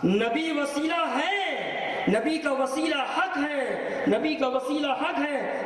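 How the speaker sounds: high, slow acted affirmation; insistent mock agreement, pitched high; emphatic agreement. Acted emphatic agreement before a qualification.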